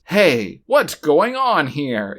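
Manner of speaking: slow, wooden "Hey, what's going on here?"; stilted awkward delivery. Retold or imitated. Mocking Kate's stiff line to a co-host, slow and wooden. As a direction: read it like a stiff, unnatural line. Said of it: "so weird and awkward and stilted".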